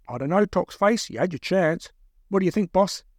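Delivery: doubtful captor. Acted. Second captor consulting the boss, doubtful. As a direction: hold the chance back from the prisoner.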